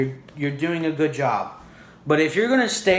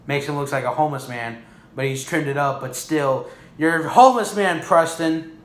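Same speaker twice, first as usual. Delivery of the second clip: usual speaking voice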